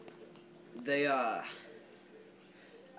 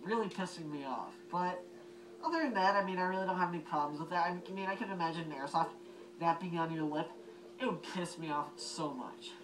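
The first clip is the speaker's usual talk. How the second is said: talking through a gas mask voice emitter; muffled mask voice, slightly higher; 4 semitones higher than usual. Real, not acted. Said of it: "I'm gonna put it on so you get to see the voice emitter".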